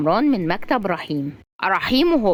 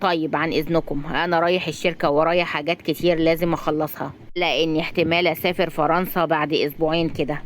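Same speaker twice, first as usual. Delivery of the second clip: slightly lower, even male-character voice; lightly voiced man excusing himself for work; a hint of a busy father; businesslike family man; 3 semitones lower than usual. Father figure voiced in story.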